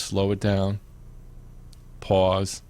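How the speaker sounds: slow it down, then leave a long gap before "pause"; "pause" set apart by silence; deliberate pause. Shown as a demonstration. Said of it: "learning how to pause yourself".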